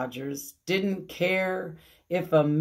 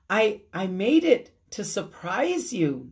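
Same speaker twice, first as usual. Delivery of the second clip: happy; 3 semitones higher, 3 dB louder than usual. Acted. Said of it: "said Amelia Bedelia so happily".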